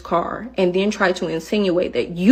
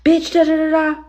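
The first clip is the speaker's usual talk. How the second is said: higher, ranting mimicry trailing into da da da; mock her rant; mock threatening passenger; 8 semitones higher, 3 dB louder than usual. Driver imitating a passenger's threat, mock ranting. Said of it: "She like".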